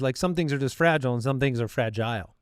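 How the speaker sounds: first "fragile" as FRAJ-ul, then "fragile" as FRAJ-ile; "fragile" FRAJ-ul versus FRAJ-ile; two pronunciations. Shown as a demonstration. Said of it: "there were tiers".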